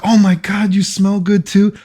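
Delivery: high girly mock voice; imitating a gushing girl. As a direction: squeal it like the excited girl.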